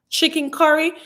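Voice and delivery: mock disbelief. Mock disbelief at the wrong name.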